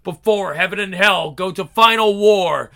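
a pained, high prayer to God; anguished prayer. Acted. Angel prays in anguish.

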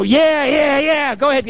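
high-pitched imitated encouragement; eager urging. Group cheering on client, eager high urging. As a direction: egg her on, pitched high.

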